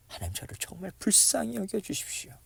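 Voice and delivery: soft, high-pitched entreaty; earnest plea. Acted. Preacher praying to God for mercy, soft earnest plea. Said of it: "이 간구요".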